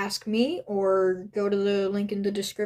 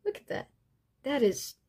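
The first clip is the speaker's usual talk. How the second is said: amazed; 6 semitones higher than usual. Real, not acted. Amazed at the masks.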